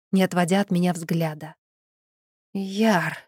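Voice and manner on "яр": a light hint of a guttural, witchy call; guttural witch voice. A narrator's reading. The witch calls after the voivode, lightly guttural. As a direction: call his name like a witch, not yourself. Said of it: "Этот низкий, гортанный голос не мог принадлежать мне".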